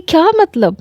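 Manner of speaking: sharp affronted exclaim; indignant surprise. Acted. Fiancée offended he asks why she called, high indignant. Abraj offended by his question.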